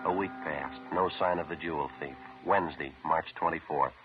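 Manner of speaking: clipped radio detective narration; deadpan police report narration; old radio show. A narrator's reading.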